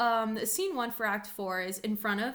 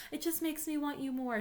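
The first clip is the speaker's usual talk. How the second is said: swooning lovestruck; 7 semitones higher than usual. Retold or imitated. Olivia's lovestruck paraphrase.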